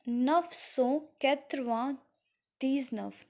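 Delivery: "neuf cent quatre-vingt-dix-neuf" very slowly, in pieces; slow, separated teaching delivery of "neuf cent quatre-vingt-dix-neuf"; French pronunciation demo. Shown as a demonstration. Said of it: "you will speak like this".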